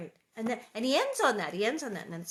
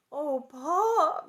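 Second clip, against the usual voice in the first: raised, louder wailing protest; mild wail; 7 semitones higher, 7 dB louder than usual. A narrator's reading. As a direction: wail it in mock dismay. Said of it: "Mary wailed".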